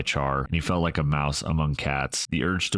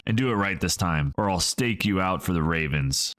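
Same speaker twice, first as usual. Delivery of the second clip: snarling; 3 semitones higher than usual. Acted. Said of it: "snarled Ember".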